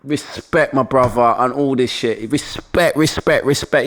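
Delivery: lightly imitated yardie accent; mock yardie street talk. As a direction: give a hint of Jamaican patois. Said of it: "he talked just like a yardie".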